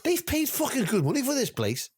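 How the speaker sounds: high, indignant Scouse boss voice; ranting Scouse boss. Retold or imitated. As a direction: scold like Vince the Scouser. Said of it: "fucking Scouser".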